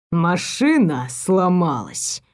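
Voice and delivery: slow, low mocking drawl. Elvin to the girl, mocking her excuse, in a slow low drawl. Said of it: "издевательски протянул он".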